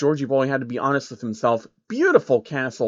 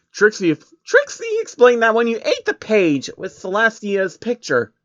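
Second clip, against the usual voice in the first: deadpan Trixie; 8 semitones higher than usual. A narrator's reading. Trixie answers Soros flatly in her high pony voice. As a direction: state it like the obvious.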